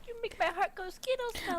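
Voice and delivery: shy confession; soft character read. Acted. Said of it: "you gotta say it how Curdy boy says it".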